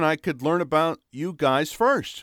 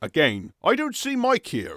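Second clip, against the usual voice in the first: fake Australian accent, higher; 4 semitones higher than usual. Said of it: "Just drop the accent for a bit, Mike".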